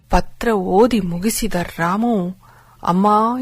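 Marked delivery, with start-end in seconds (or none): 2.8-3.4 ಅಮ್ಮ called out louder, with grief; loud cry. Acted. Ramu cries out to his dead mother, loud. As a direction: cry out for mother after her letter. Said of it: "ಎಂದು ಕಿರುಚಿದ".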